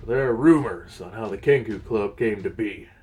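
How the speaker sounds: measured storytelling read over music; lore narration. A narrator's reading. Narrator recounting the club's origins to viewers. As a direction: tell it like a tavern legend.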